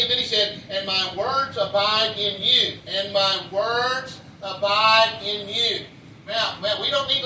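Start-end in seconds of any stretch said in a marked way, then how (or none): 0.7-5.9 slow scripture recitation. Acted. Preacher repeats scripture slowly.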